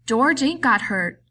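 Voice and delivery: Lenny denies George got hurt, desperate; distressed denial. A narrator's reading. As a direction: refuse it, close to panic.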